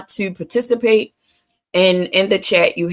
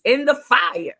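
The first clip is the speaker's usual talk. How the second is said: preachy emphasis; 7 semitones higher than usual. Real, not acted. Sermon-like emphatic phrase.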